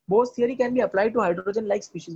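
slow, word by word textbook reading; slow dictation read. Acted. Teacher dictating a textbook line slowly. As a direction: read it out slowly so students can copy.

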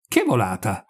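low, subdued, puzzled question; dazed question. A narrator's reading. Simone still lost by the news, mildly dazed. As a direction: ask it in mild bewilderment, softly. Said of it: "gli domandò Simone Lampo stordito".

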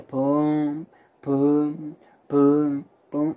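soft, unhurried booms imitating a boat's sway; easy little "poom" for each swing; relaxed rocking sound. Storyteller imitating the boat's gentle sway, relaxed soft booms. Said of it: "empezó así súper relajadito".

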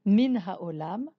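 Min ha'olam said slowly and clearly; careful Hebrew demo; slow Hebrew phrase. Shown as a demonstration. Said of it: "en venant du monde".

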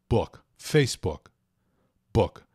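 book with a short lax vowel, not U; English oo sound. Shown as a demonstration. Teacher isolates the double O for learners, English oo sound. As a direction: book and Facebook slowly, no final vowel. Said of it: "Esse som de dois Os em book".

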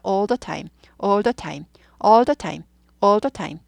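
"all the time" with "all the" run together as "oldo"; all the linked together. Shown as a demonstration. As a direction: model "all the time" repeatedly, joining "all" onto "the". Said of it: "all the까지 붙어야 돼요". (all the time에서 all the를 "올더"로 붙여서 발음)

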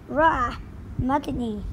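squawking parrot cry. Acted. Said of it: "That's right, Polly".

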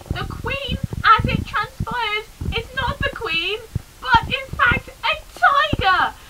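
dramatic reveal. Pretend. Shocking reveal, high pitch.

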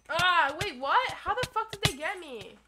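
loud, high, laughing disbelief; real shock, loud and high. Real, not acted. Sudden unexpected death.

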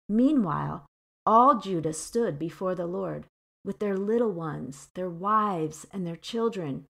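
steady narrative Bible reading; plain, measured verse reading; scripture reading. Acted. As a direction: set the scene as you read. Reads the scene from scripture.

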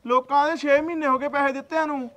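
fed-up creditor raising his voice; angry demand. Acted. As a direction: press him hard for the debt.

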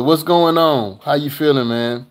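loud, high what's going on, brother; excited greeting. Real, not acted. Vlogger hollering hello to a fan, loud and high. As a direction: hail him like a buddy.

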